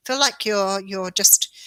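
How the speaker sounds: breathless, halting words; short of air mid-sentence; out of breath. Real, not acted. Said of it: "oh, I'm out of breath".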